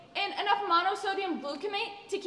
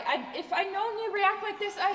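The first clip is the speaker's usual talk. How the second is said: laughing; 2 semitones higher than usual. Acted. Same line retaken, this time laughing.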